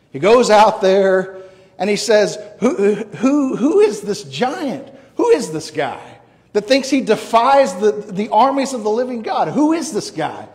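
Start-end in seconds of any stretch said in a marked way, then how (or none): 2.6-10.5 raised pitch, incredulous questioning; indignant challenge. Acted. David before Goliath at the battle, indignant challenge. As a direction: demand to know who dares.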